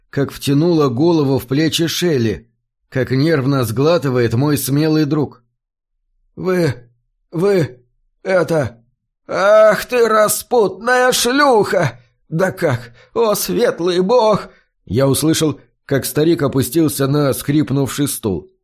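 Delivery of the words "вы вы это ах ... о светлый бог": sputtering, then bursting into fury; old farmer sputtering in outrage at the betrayal; stunned outrage. A narrator's reading. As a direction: choke on the words, then explode. Old man discovers betrayal.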